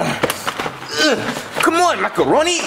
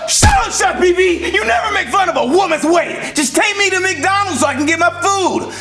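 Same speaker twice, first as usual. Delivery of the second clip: furious shout; 5 semitones higher than usual. Acted. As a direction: scream it, deeply insulted. Bowser offended about weight.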